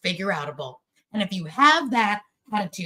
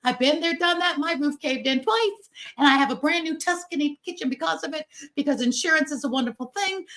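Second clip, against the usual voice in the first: upbeat reassurance; 6 semitones higher than usual. Retold or imitated. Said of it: "it's gonna say".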